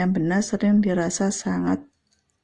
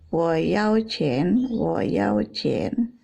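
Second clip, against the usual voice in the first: slow "Wo yao qian", tone-by-tone Mandarin demo; nada mau uang; much slower than usual. Shown as a demonstration. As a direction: draw out "yao" and "qian" with clear tones. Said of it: "Tapi kalau sudah tandanya gini". ("Wo yao qian" pelan dengan nada jelas)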